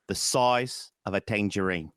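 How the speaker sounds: broad Cockney vowels; Michael Caine. Shown as a demonstration. Host giving his way into the impression, Cockney accent. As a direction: lean into a London accent. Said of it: "for Michael Caine, my line is".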